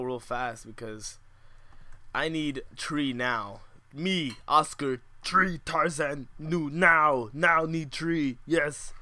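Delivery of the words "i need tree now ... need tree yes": slow, lightly voiced caveman Tarzan; mock jungle-man speech, slow and blunt; a hint of Tarzan drifting into Schwarzenegger. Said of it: "Tarzan turned into Arnold Schwarzenegger".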